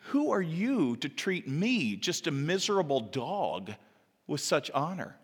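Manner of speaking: slow, swooping awed question; humbled amazement. Acted. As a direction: ask it haltingly, overwhelmed by the favour. Humbled Mephibosheth answers the king.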